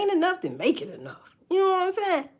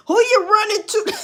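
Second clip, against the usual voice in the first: laughing taunt; 12 semitones higher, 7 dB louder than usual. Real, not acted. Laughing taunt at baby mamas.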